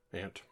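"Ant" said like the insect; own pronunciation. Shown as a demonstration. American doing an accent word list, "Ant" like the insect. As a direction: say "Ant" with a short flat a, as in pant. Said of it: "I know is supposed to be aunt".

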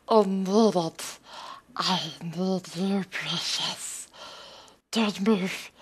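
a lightly voiced hissing cave creature, mostly in own voice; mock creature voice, barely changed from own; creepy creature voice. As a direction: play a wheedling cave creature, half-hearted. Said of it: "the accent challenge".

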